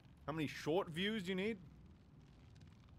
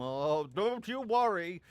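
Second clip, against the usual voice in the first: teasing drawl; 4 semitones higher, 5 dB louder, slower than usual. Pretend. Drawn-out teasing repeat.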